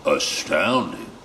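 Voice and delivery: slow, lightly voiced monster; a hint of amazed beast, drawn out; Gruffalo. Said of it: "said the Gruffalo".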